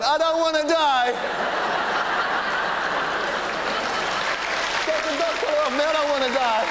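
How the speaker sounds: high, loud squealing dog voice; panicked spaniel. Pretend. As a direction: squeal like a terrified little dog. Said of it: "King Charles Spaniel going".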